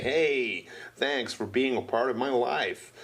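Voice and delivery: put-on American accent for a greeting; American-accented thank-you to the guests. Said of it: "talking in an American accent".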